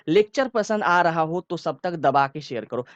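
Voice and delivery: slow, deliberate and firm; forceful but relaxed. Shown as a demonstration. Teacher demonstrating a forceful but unhurried line. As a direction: lean on it with force but take your time. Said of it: "जोर से तो बोला, लेकिन मैं क्या आराम आराम से बोल रहा था".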